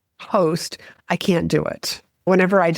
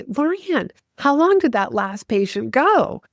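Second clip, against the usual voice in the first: higher-pitched, animated question to a colleague; energetic doctor; 5 semitones higher than usual. Retold or imitated. Doctor quizzing assistant mid-treadmill test to spur the patient, energetic. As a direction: call out the question with motivating energy. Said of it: "the energy behind Doctor Barry".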